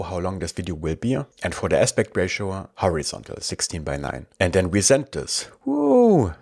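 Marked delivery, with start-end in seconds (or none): 5.6-6.3 a high, loud whoop of delight; little victory whoop; excited whoop. Real, not acted. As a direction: cheer like you just hit send on something great. Sends the prompt, celebrates.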